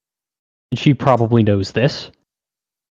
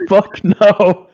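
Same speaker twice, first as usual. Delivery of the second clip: higher and louder, a sharp mock refusal; defiant outburst; 8 semitones higher, 4 dB louder than usual. Clerk retells refusing the coupon lady, a loud mock outburst. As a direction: blurt the refusal out with gusto.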